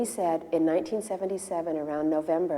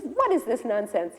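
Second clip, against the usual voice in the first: slow, higher-pitched scolding; indignant rebuke; 5 semitones higher, slower than usual. Retold or imitated. Prabhupada scolding the king about paid priests, indignant. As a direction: draw it out in disapproval.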